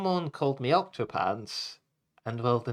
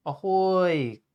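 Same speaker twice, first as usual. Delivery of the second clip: loud pirate hail, a little higher; booming pirate ahoy; 5 semitones higher, 4 dB louder than usual. Acted. Pirate captain calling the crew, loud jolly ahoy. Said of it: "we heard a booming voice".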